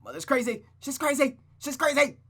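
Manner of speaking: very high, loud, frantic scream; panicked screaming. Acted. Rosa screaming about her mother while escaping, frantic. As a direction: shriek it as you flee.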